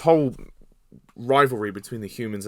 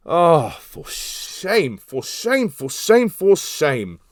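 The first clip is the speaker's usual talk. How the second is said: much higher, sing-song hammy tut-tutting; hammed-up lament; mock scolding; 6 semitones higher, 3 dB louder, much slower than usual. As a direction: theatrically shame him. Mock scolding the actor's role.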